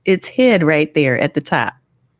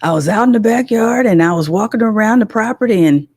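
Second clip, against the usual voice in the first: slightly raised dad voice; lightly mimicked father telling a tale; imitating her father; 4 semitones higher, faster than usual. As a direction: retell it as your father would. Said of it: "That's how he talked".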